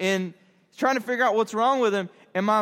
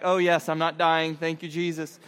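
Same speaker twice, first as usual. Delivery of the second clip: low, softened mock relief; relieved; 5 semitones lower than usual. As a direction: act out thankful first breath back. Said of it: "that first breath".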